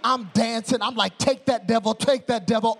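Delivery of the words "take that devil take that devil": loud, punchy mock victory chant; exultant taunt. Preacher celebrating in his hotel room, loud exultant taunt. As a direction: crow it at a beaten foe.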